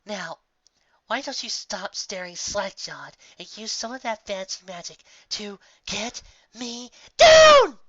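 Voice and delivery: rising exasperation until she yells; indignant, building to a shout. Acted. Stuck pony demands to be pulled down, exasperated yell. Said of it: "indignant reply".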